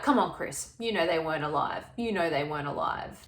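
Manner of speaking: mildly firm retold challenge, pitch sinking; a bit tougher. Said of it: "gets a bit tougher with Chris".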